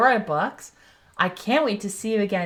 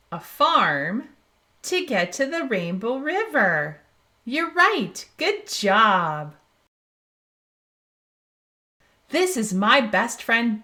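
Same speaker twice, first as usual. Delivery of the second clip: put-on reading to children. Host reading a Dora book to young viewers, animated and bright. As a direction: read it out big and cheerful for little ones.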